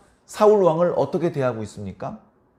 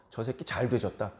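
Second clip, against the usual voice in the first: softer, under-the-breath mock curse; an inner grumble, much softer; muttered curse; 7 semitones lower, 10 dB quieter than usual. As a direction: mutter it to yourself. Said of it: "속으로 욕하고 맙니다".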